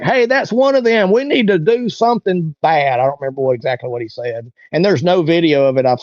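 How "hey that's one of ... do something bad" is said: a menacing heckler; mock him as a rough, threatening stranger; imitating a hostile guy. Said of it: "this skinny white dude was like".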